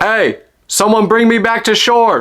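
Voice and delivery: high, drawn-out call for help; retold scream. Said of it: "So I scream out".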